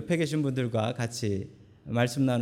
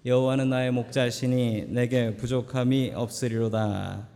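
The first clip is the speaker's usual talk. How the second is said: reading aloud together. Shown as a demonstration. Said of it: "같이 읽습니다. 시작".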